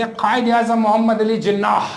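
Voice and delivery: "Jinnah" ending in an audible h; "Jinnah" with its last h sounded; final h pronounced. Shown as a demonstration. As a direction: breathe out the h at the end of "Jinnah". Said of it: "so the ha sound is pronounced".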